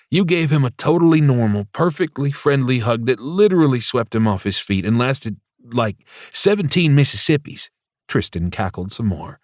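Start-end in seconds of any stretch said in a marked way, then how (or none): 0.1-7.7 high mocking singsong; teasing. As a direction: tease him gleefully. Tristan teasing Ozzy.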